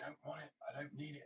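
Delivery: high, stubborn refusal; mock refusal. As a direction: say it like a proud self refusing. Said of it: "I'm like".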